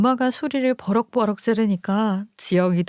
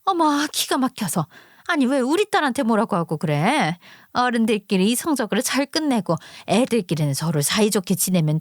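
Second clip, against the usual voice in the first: two mothers bickering, voiced lightly by the narrator; a touch of an angry mother standing up for her daughter; heated quarrel. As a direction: argue like an offended neighbour mom. Mothers' quarrel resumes, threats.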